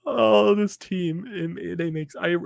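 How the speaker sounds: high, drawn-out groan of despair; anguished wail. Real, not acted. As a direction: stretch it out like you can't believe it. Fan despairing over blown lead.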